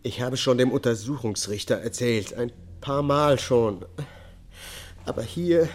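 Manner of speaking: high, loud, anguished confession; distraught testimony. Acted. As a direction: force the words out through rising distress. Defendant breaks down in court.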